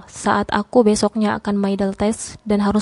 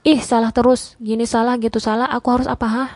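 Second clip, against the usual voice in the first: fed up, words tumbling out fast; emotional outburst; 2 semitones higher than usual. Acted. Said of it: "tanyaku dengan emosi".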